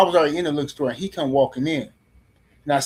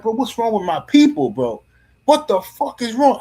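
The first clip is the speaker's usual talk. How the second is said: louder, higher retold exclamation of disbelief; exasperated outburst; 7 semitones higher, 5 dB louder than usual. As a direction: throw it up in frustrated disbelief.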